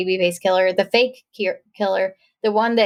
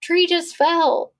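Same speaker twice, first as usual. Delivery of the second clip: fake innocent cover; 6 semitones higher, much slower than usual. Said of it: "she was like".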